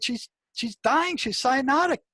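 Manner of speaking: high, urgent retold yell; alarmed yell. Nurse yelling at the doctor that the patient is dying, high and urgent. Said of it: "And, and I scream at him".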